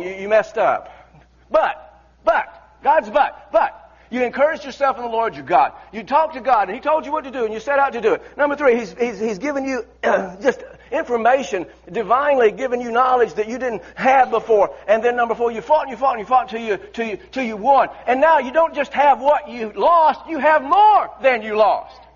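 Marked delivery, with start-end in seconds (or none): 1.5-5.7 rising preacher's cry on but; full-voiced pulpit shout; preaching shout. Real, not acted. 18.1-22.0 triumphant pulpit shout; slow preaching shout. Real, not acted. Climax of sermon point.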